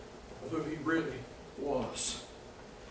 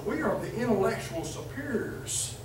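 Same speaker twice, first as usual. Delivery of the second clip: arrogant talking down. Retold or imitated. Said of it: "Talking down arrogantly".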